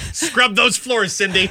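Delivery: high, slow, laughing taskmaster; wicked stepmother. Acted. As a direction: bark orders like a cruel stepmother. Mother voiced in Cinderella joke.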